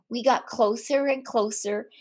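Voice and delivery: hushed, building suspense; whispered. Real, not acted. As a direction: whisper it like a secret. Suspense as they approach.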